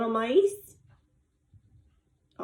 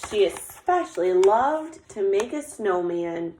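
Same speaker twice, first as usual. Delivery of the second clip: put-on lively, measured read-aloud to children; story narration. A narrator's reading. Teacher reading about Little Bear getting dressed for snow, storytelling voice. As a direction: read it like a picture book, lingering on descriptions. Reads picture book aloud.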